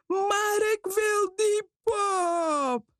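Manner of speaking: hoog, langzaam huilend jammeren; huilend roepen. Acted. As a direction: jammer het huilend uit als een kind dat haar zin niet krijgt. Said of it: "riep ze". (Lola huilt in de winkel om de pop, hoog en gerekt jammerend)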